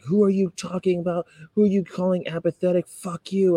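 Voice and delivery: imitating an angry stranger's high yell; a high, mocking shout of the pregnant lady; mock scream. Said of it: "she started screaming at me".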